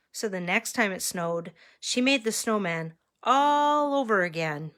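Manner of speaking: expressive storytime reading; story narration. A narrator's reading. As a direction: read to children with rise and fall. Reads picture book to children.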